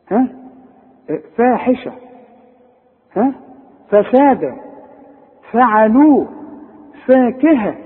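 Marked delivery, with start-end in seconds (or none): 1.4-1.9 فاحشة with a thin, fronted "fae"; higher pitch, light first vowel in فاحشة; correct light Fa. Shown as a demonstration. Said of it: "اقراها صح". 3.9-7.8 higher list with thin, fronted vowel after ف, as in فاكهة; correct light Fa. Shown as a demonstration. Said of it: "اقراها صح".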